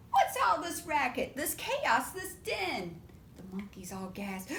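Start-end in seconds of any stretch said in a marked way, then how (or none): 0.1-3.0 louder scolding mother; a hint of a scolding mom; stern mama. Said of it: "Mama walks in".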